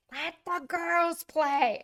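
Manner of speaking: slow, high, loud bench holler; re-enacted yell. Coach yells at shortstop from the bench, re-enacted holler. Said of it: "I yelled from the bench".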